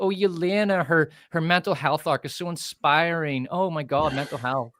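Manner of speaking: lightly mimicked gushing admiration; mock gushing fans. Mimicking fans raving about Yelena's arc, mock gushing. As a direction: parrot their swooning praise with mild mockery. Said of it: "everyone was talking about".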